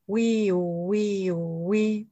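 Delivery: a rising-falling wiiu, mimicked lightly; siren imitation. Poet imitating an approaching siren for the audience, light wail. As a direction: wail it like a distant ambulance siren.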